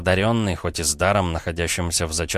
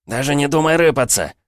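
higher, louder warning; threatening shout; 8 semitones higher, 5 dB louder than usual. Acted. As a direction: yell the threat down at him. Gunman yelling threat.

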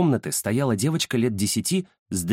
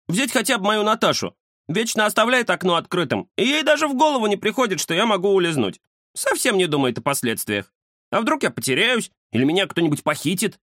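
indignant tomcat; 9 semitones higher than usual. A narrator's reading. The cat grumbles to Ramzes about his owner, high and indignant. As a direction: complain about careless people.

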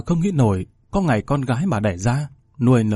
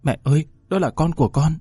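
lightly voiced young woman begging, slightly higher; pleading daughter; 4 semitones higher than usual. Daughter pleading with her furious mother, anxious.

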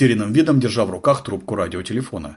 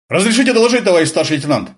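higher, louder, snapped out smartly; brisk report; 8 semitones higher, 5 dB louder, faster than usual. A narrator's reading. Sergeant reporting to the lieutenant, exaggeratedly brisk. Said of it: "Нарочито бойко отчеканил он".

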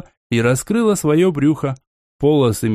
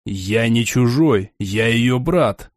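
low calm man; 5 semitones lower, much slower than usual. A narrator's reading. Young man answers old man.

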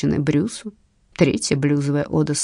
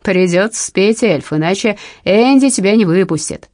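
shouting; 5 dB louder than usual. Acted. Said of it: "кричит из зала певец".

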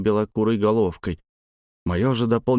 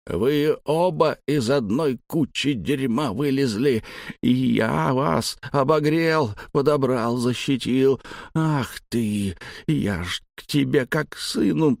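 a touch higher, slow, choking grief; hurt old man near tears; 4 semitones higher, slower than usual. Acted. The old man reproaches the lads, slow and almost crying. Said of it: "чуть ли не плакал старик".

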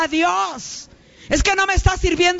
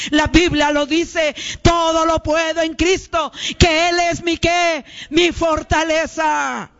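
full preaching. Acted. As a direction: preach it, stretching every sí se puede. Clímax de la prédica, sí se puede. (predicación enfática y lenta)

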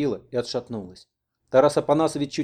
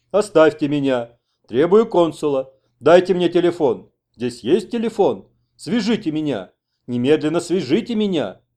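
raised, drawn-out nasal protest; nasal whining demands; 4 semitones higher, 7 dB louder than usual. A narrator's reading. Interpreter relays the American's demands for a phone, nasal whine. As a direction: whine each demand insistently. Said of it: "гнусавил переводчик".

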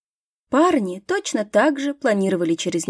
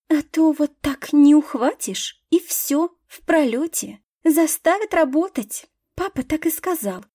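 put-on high, whiny rich girl; airy spoiled heiress complaining; 4 semitones higher than usual. Кассия капризно рассуждает. (капризно, избалованно)

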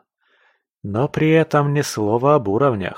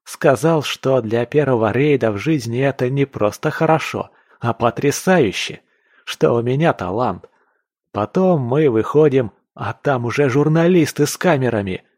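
lightly voiced eager boaster; a little higher and livelier; excited young hunter; 4 semitones higher than usual. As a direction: recount your triumph with mild excitement.

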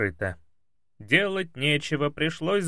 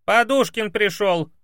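high, loud yell; yelling maid; 8 semitones higher, 5 dB louder than usual. Acted. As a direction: yell it through the house like a brash maid. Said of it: "завопила домработница".

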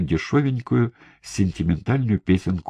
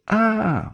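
sharp shout. A narrator's reading. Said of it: "выкрикнул Бугай".

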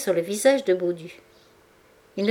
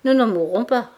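louder, higher put-on cheer; forced bravado; 5 semitones higher, 5 dB louder than usual. A narrator's reading. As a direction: talk himself into courage. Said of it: "pour se donner du courage".

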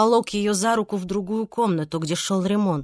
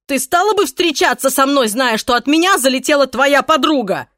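rising, louder and higher frustration; agitated outburst; 5 semitones higher, 6 dB louder than usual. A narrator's reading. Pablo justifying himself to Irene, heated. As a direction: let it boil over.

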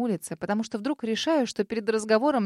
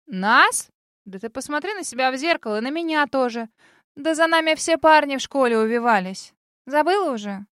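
put-on sassy girl voice; 4 semitones higher, 7 dB louder than usual. A narrator's reading.

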